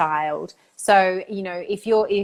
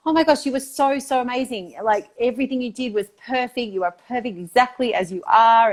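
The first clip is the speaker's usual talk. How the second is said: gushing praise; 4 semitones higher than usual. Retold or imitated.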